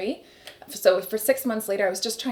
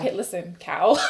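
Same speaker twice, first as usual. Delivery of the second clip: mock anger; 2 semitones lower, 4 dB louder than usual. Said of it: "my first reaction was anger".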